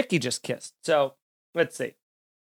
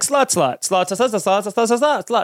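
mock rant; 2 semitones higher than usual. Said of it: "you'd just be like".

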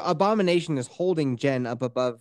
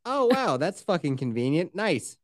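mock wow, then flat; dry sarcastic sign-off; sarcastic praise. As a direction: sneer at the convenient excuse. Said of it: "It's like".

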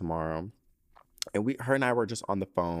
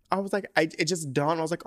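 laugh-crying; 7 semitones higher, 4 dB louder than usual. Real, not acted. Breaks down retelling sweet thought.

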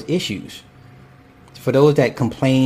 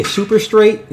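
incredulous; 9 semitones higher, slower than usual. Real, not acted. Reads the title mockingly.

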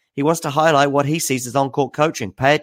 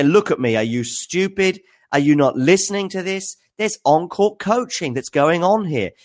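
much higher mock rant, slowed on stupid; acted Medvedev rant; 8 semitones higher than usual. Medvedev demanding umpire's attention, high mock rant. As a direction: rant up high like an exasperated player. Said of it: "my acting performance here".

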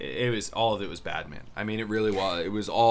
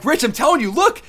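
much higher and louder, urgent look; urgent insisting; 5 dB louder than usual. Retold or imitated. Showing Rich the replay, urgent insistence. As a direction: grab his attention now. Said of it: "I was like".

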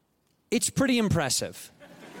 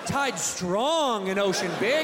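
slow caveman talk; slower than usual. Acted. Caveman parody.

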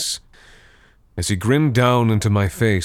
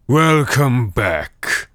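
higher, slow gurgling undead; gurgling swamp creature; 5 semitones higher, 3 dB louder, much slower than usual. A narrator's reading. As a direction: gurgle it like a drowned corpse. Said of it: "Thangbrand gurgled".

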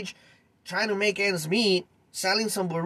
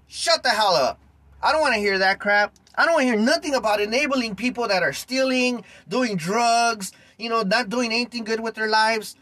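angry rant; 3 semitones higher than usual. Real, not acted. Vlogger scolding commenters who excuse the thief, angry. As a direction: lay into them, fed up. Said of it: "sorry if I sound like I'm angry".

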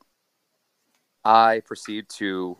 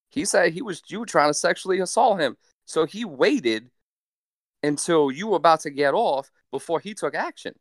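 lightly voiced sassy conductor, pitched up; sassy train conductor; 5 semitones higher than usual. Conductor explaining the man's accusation, lightly voiced sassy higher tone. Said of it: "This really sassy".

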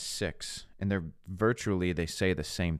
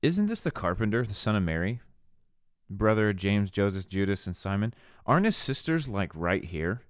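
mock-incredulous townsfolk, pitch jumping on the questions; offended disbelief. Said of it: "listen to the turn it takes".

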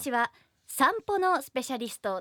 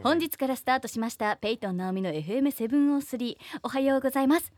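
radio DJ voice. Acted. Hosts her own radio corner.

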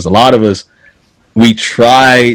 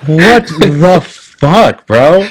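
very slow, higher, incredulous; drawn-out disbelief; 6 semitones higher, much slower than usual. Real, not acted. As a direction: stretch every word out in disbelief. Incredulous reaction to being mocked.

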